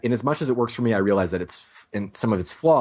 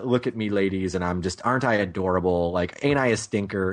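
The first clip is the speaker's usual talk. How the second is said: mock charming ladies' man; 3 semitones lower than usual. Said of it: "he thinks he's a very charming".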